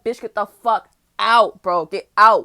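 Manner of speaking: slow building yell up to a bellow; furious shout. Retold or imitated. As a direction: roar him out of the house. Kicking him out of the house.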